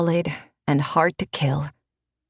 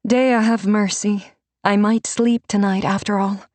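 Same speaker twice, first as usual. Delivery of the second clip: relieved mentor; 4 semitones higher than usual. Acted. Renata after her face softens, higher and relieved. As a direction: let the worry drain out.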